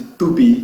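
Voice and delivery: "to be" said as too-BEE, hard T; wrong "to be" with an "oo" first vowel; wrong pronunciation. Retold or imitated. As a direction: mispronounce "to be" like a fruit name, "tubi". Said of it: "tem outros que chamam de".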